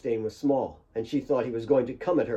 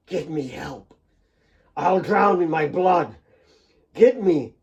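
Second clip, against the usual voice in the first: desperate plea; 5 semitones higher, 5 dB louder than usual. Acted. Dying Nick pleads.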